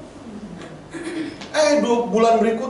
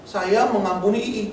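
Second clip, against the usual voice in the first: slow, laboured forgiveness; slower than usual. Retold or imitated. Counselee struggling to forgive the aunt, slow and laboured. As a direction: imitate someone dragging the words out slowly. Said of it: "Itu aja lama ngomong saya mengampuni".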